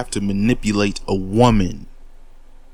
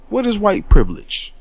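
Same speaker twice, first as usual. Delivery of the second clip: "What is white privilege?" higher and louder, leading with "What"; challenging question; 8 semitones higher, 5 dB louder than usual. Real, not acted. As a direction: throw the question out hard, daring them to answer. Rhetorical challenge, asked twice.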